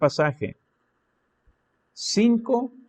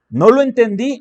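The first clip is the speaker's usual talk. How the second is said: mock frustrated exclamation, higher and louder; puzzled reader; 8 semitones higher, 8 dB louder than usual. Preacher voicing a reader confused by the Bible verse, exclaiming. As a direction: act out a reader who didn't get it. Reader who didn't understand.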